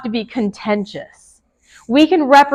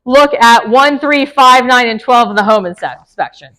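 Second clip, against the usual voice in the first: mock vague request. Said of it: "don't say".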